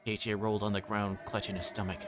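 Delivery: usual speaking voice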